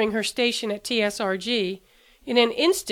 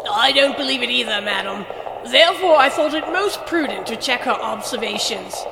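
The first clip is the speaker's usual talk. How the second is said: steady, firm officer's voice; lightly voiced firm brigadier. A narrator's reading. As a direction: hold your ground without raising it. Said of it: "the brigadier's voice was firm".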